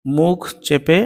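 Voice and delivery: মুখ চেপে, lips held tight; lips pressed. Shown as a demonstration. Teacher demonstrating মুখ চেপে with pressed lips. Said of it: "long, but মুখ চেপে".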